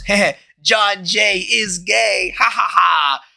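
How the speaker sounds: drawn-out, high jeer with fake laughs; hammed-up playground taunt; mock childish taunt. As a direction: jeer it like a schoolkid slogan. Re-enacting his childish taunting slogan.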